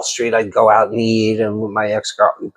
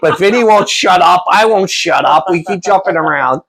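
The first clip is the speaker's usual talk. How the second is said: high, whiny mock complaint about a chatty friend; 8 semitones higher, 3 dB louder than usual. Teasing his podcast friend with a high whiny complaining voice. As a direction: pitch it up and whine like a tired buddy.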